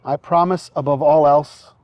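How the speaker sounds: officiant feeding vows phrase by phrase; short phrases with pauses. Shown as a demonstration. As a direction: say each phrase, then pause for the repeat. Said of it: "repeat after me phrase by phrase".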